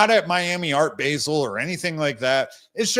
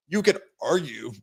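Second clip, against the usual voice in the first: hiccups. Real, not acted. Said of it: "sorry, I've got the hiccups".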